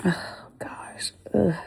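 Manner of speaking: pained gasps through cramping; breathy, hurting, doubled over with cramps; stomach cramps. Real, not acted. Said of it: "Oh, I'm cramping".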